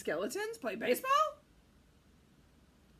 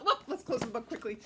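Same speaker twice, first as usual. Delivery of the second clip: laughing; 7 dB louder, faster than usual. Real, not acted. Laughing rush.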